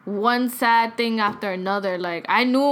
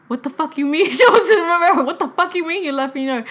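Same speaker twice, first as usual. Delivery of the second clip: retold disbelief; 6 semitones higher, 5 dB louder than usual. Aunt's shocked reaction retold.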